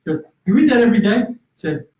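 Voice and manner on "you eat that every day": higher and louder, mock disbelief; older woman at the gym, half-mock disbelief; incredulous woman. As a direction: ask it like you can't believe it.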